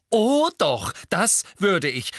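loud, high, emphatic retort; grim. A narrator's reading. Hermine confirming her threat to George, grim. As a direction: insist fiercely, stretching the words. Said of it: "sagte Hermine grimmig".

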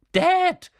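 put-on high, loud whining boy; sudden cry. A narrator's reading. Son suddenly alerts his father, sudden cry. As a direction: blurt it out high. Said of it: "sagte Dudley plötzlich".

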